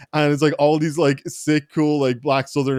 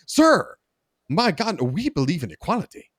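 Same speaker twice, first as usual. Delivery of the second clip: mock-offended protest, pitched up; imitated indignant offense; 6 semitones higher than usual. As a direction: act affronted at an accusation, hammed-up. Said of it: "like, genuinely offended".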